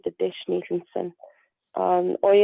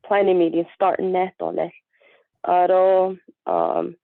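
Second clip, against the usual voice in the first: hoarse, fading voice; strained, losing voice. Real, not acted. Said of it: "I'm losing my voice".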